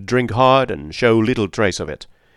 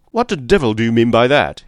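louder angry demand; roaring; 2 semitones higher, 5 dB louder than usual. Acted. McMurdo roaring back at the police captain. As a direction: bristle and roar the challenge. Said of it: "he roared with his fists clenched".

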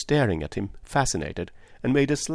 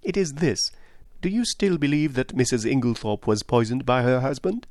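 higher-pitched, earnest detective; Poirot; 4 semitones higher than usual. Acted. Detective asks a woman for a truthful answer, earnest. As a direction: press the question politely.

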